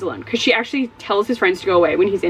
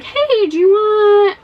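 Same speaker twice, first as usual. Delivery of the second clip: sly pharmacist; 11 semitones higher, 6 dB louder, much slower than usual. Retold or imitated. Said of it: "brings him into the back and is like".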